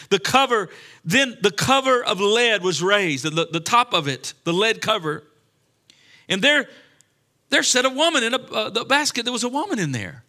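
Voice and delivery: declaimed scripture. Real, not acted. Preacher reads Zechariah to the congregation, declaimed scripture. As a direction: proclaim the verse, building in pitch. Scripture read aloud with force.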